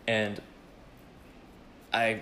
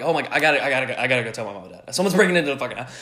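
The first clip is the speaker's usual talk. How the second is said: urgent, raised voice in mock alarm; panicked; 3 semitones higher, 6 dB louder, faster than usual. Teller replays rushing to tell his parents, panicked. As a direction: act out a flustered rush to warn. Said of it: "like, panicked".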